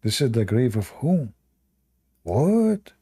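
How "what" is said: sharp high what, caught off guard; startled what. Real, not acted. A streamer startled by an odd picture, sharp high what. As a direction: jump up on the word in surprise.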